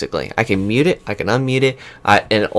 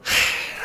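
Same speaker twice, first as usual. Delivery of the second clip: weary sigh; 7 dB quieter than usual. Retold or imitated. Acting out fed-up reaction to software.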